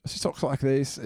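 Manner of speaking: light, half-hearted Scottish accent; attempted Scottish accent. Shown as a demonstration. Imitating a Scottish actress for a co-host, faint Scottish accent. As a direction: have a tentative go at a Scottish accent. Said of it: "But she's Scottish".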